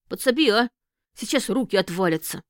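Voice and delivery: grunting under a heavy load; carrying heavy load. Acted. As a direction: strain as if lifting crates. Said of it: "произнёс он кряхтя". (кряхтя под тяжестью)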